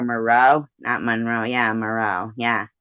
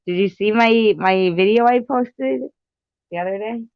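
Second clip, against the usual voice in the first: put-on Russian accent; 9 semitones higher, 3 dB louder than usual. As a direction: stretch it out in a mock Russian accent. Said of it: "talk in that Russian accent".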